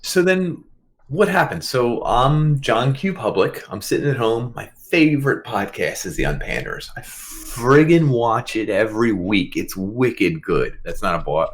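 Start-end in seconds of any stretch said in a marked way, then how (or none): 1.6-10.8 slow, put-on Boston accent; playing a Boston everyman, Boston accent. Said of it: "I guess that's not a Chicago accent".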